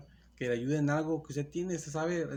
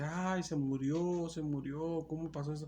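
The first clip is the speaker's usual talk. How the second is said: mild mock wail, drawn out at the start; imitated lamenting; 2 semitones higher than usual. Preacher voicing mourners in Jairus's house, lamenting. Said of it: "estaban llorando y lamentándose".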